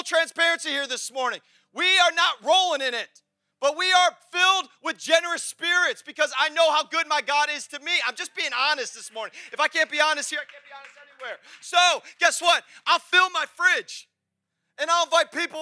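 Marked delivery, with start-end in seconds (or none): 1.7-8.0 fervent preaching shout. Real, not acted. Preaching at full force. 11.6-14.1 slow, high and loud, each word pressed; slow emphatic declaration. Real, not acted.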